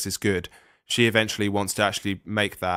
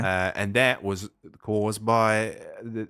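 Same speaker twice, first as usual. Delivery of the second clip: put-on Australian accent. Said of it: "you were indulging your Australian accent there".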